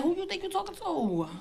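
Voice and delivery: mock sassy teen. Daughter practice-arguing alone.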